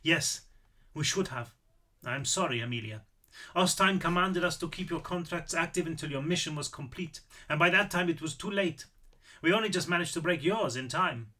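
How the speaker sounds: lightly voiced old Austrian man, apologetic; a touch of regret in an Austrian accent. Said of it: "Apparently I am doing the accent".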